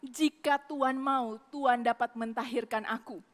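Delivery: humble, quiet request to the Lord; polite. Retold or imitated. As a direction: ask God gently and respectfully. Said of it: "Dia sangat sopan".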